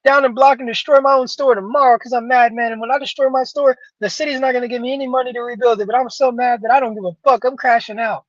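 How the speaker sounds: high, loud, hammed-up furious yelling; mock outraged rioter. Mocking viewers who riot only for their own, hammed-up high shout. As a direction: ham it up like a rioter crying he's so mad. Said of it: "y'all be saying".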